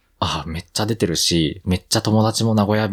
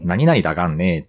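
casual native Nagoya lilt; Nagoya dialect. Shown as a demonstration. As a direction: demonstrate a quick Nagoya だがんねー. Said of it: "めっちゃ言っちゃう".

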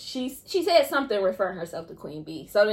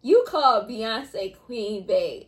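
high, slow, laughing outcry; mock-outraged, laughing wail; laughing disbelief; 13 semitones higher, 5 dB louder, much slower than usual. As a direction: cry out in amused disbelief. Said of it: "And I was like".

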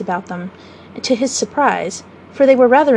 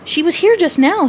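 mildly impatient, higher-pitched; slightly testy and raised in pitch; a little impatient; 7 semitones higher, 3 dB louder than usual. A narrator's reading. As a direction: say it with a touch of impatience. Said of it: "said a little impatiently".

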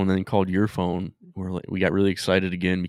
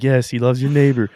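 mock preacher; 5 semitones higher, 7 dB louder than usual. Quoting the preacher.

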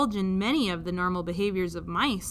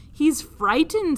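higher, slow and louder; sympathetic princess; 6 semitones higher, 6 dB louder, slower than usual. Acted. Princess pitying the mouse, higher and gentle. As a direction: feel for the little creature. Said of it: "said the P".

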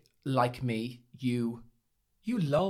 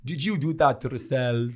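mock Count voice, badly done; the speaker as Dracula. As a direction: attempt a vampire-like impression. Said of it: "like the Count from Sesame Street".

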